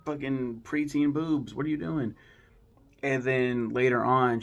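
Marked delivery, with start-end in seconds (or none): 0.1-2.1 higher-pitched retold protest; mock freak-out. Sally finds Tommy in her shirt, mock freak-out. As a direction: imitate someone freaking out, half in earnest. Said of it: "And she freaks out".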